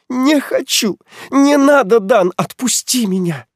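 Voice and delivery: high, loud panicked shouts; shrill refusal. Acted. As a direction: shriek no at him. Heroine shrieks refusal.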